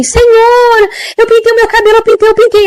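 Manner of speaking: put-on high, pleading old woman's voice; anxious old lady. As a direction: confess nervously like a frail old lady. Old woman answering the angel. (velhinha aflita, voz aguda)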